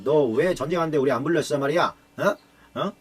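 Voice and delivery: acted indignant challenge; confrontational complaint. Ephraim confronting Jephthah over being left out, mock indignant. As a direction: pick a fight with pushy questions. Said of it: "막 그러면서 또 되들었더니".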